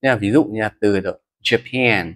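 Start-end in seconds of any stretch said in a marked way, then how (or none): 1.4-2.1 Japan with stress on the second syllable, ja-PAN. Shown as a demonstration. English teacher showing students how to stress Japan, ja-PAN. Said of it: "trọng âm chính rơi vào âm tiết số hai".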